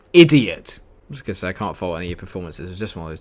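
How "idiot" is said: loud, higher snap of an insult; real anger; angry shout. Real, not acted. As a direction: yell it at the defender. Cursing his defender.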